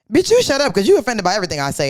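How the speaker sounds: high, loud teasing snap at her friend; mock yelled insult. Teasing her touchy drunk best friend, mock yell. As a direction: yell it like playful trash talk.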